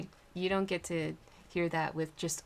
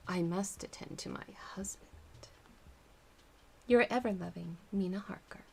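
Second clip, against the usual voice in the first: whispered story reading. Acted. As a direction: whisper the letter's close. Ending the letter, whispered.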